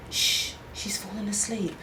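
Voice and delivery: breathy whisper with no voice at all. A narrator's reading. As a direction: whisper it so the baby stays asleep. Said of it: "Melanie whispered".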